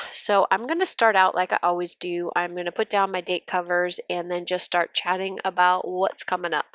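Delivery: blocked nose from allergies; stuffy nose. Real, not acted. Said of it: "sorry if I sound a little bit stuffy".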